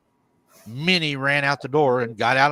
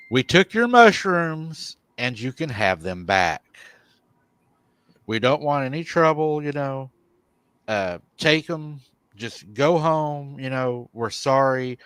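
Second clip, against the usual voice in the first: retold apology; 2 semitones higher than usual. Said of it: "I'm sitting here apologizing to the dark".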